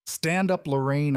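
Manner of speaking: a father's cold, cutting command. A narrator's reading. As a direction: cut through her panic. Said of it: "my voice cutting through her hysteria".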